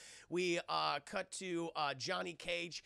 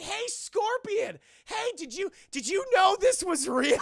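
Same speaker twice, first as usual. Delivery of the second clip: calling out; 12 semitones higher, 11 dB louder than usual. Retold or imitated. Johnny hailing Scorpion across the jungle, loud call. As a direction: shout across to him. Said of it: "And they're like".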